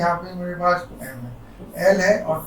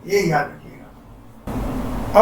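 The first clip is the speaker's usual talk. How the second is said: hushed reminder; 4 semitones lower, 3 dB quieter, much slower than usual. Real, not acted. Teacher stresses a key point.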